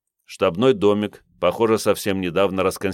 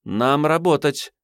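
sharp; 8 semitones higher, slower than usual. A narrator's reading. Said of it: "резко сказала блондинка".

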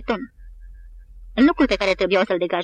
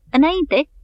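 higher, louder command, falling at the end; bellowing forward; 7 semitones higher, 4 dB louder than usual. A narrator's reading. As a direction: roar the order at the top of his lungs. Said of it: "urlând cât îl ținea gura". (urlet din toți rărunchii)

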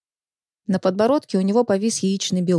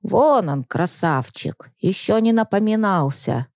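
reproachful; slower than usual. Acted. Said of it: "укоризненно покачала головой Егоровна".

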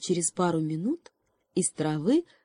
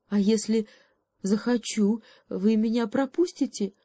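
higher, hesitant hare asking; timid question; 5 semitones higher than usual. Acted. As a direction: ask shyly, afraid of the answer. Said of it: "робко спросил заяц".

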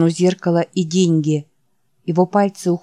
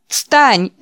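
giggling shout; 5 semitones higher, 4 dB louder than usual. Acted. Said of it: "воскликнул Джек, хихикая".

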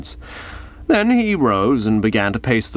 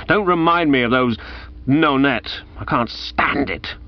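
hoarse cry; 4 semitones higher than usual. Acted. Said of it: "A hoarse cry broke from his twisted lips".

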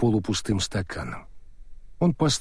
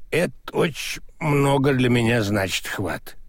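put-on maudlin drunken gratitude; drunk sentimental. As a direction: drunk and getting teary-eyed. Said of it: "пьяной сентиментальности".

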